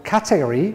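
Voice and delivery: "category" with a rising end; variant pronunciation. Shown as a demonstration. Teacher giving one way to say category. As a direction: say "category" as one possible version. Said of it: "which is the right pronunciation of category".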